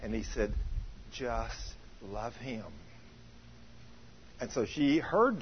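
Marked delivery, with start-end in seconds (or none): 1.1-2.6 soft, slow, gentle divine voice; voice of God. Retold or imitated. God answering the wife, soft slow gentle voice. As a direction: speak it as a hushed calm command. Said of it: "in an audible voice".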